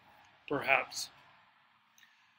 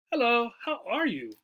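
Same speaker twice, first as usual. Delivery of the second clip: "are" raised and stressed, then falling; surprised greeting leaning on "are"; 5 semitones higher than usual. Shown as a demonstration. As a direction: hit "are" in "how are you". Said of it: "we might stress the word are".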